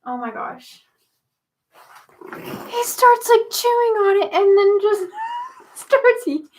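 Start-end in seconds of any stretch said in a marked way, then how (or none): 2.3-6.5 high, loud, laughing through the words; cracking up while telling it; loud laughing disbelief at the cat; laughing shout. Real, not acted.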